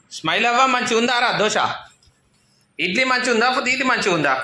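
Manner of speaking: high, cooing questions. Real, not acted. Mother asking her little girl if the dosa tastes good, high cooing.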